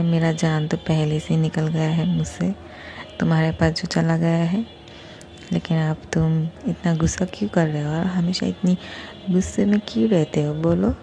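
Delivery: lightly sweet coaxing tone; Doctor B sweet-talking angry Cookie, mildly cute. Acted. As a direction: coax her gently, a touch cutesy. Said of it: "बहुत ही cute से बोलते हैं".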